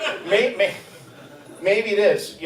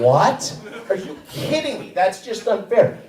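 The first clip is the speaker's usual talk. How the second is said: mock outrage; 4 semitones higher than usual. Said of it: "I'm like".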